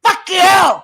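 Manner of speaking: hammed-up rant with shouted insults; mock furious rant. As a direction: play it as a staged outburst, barking the names. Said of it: "how do you do that so good?".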